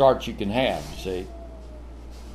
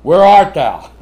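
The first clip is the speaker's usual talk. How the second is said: calling out; 9 dB louder than usual. Retold or imitated. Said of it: "That's what you say to the kids".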